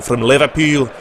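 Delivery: imitated Liverpool accent; Stevie Gerrard. Shown as a demonstration. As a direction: put on a Scouse accent. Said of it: "Stevie Gerrard talks like that".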